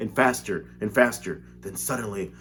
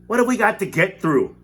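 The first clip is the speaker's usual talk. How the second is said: higher, louder worried question; alarmed shout; 9 semitones higher, 7 dB louder than usual. A narrator's reading. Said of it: "shouted Grandpa Joe".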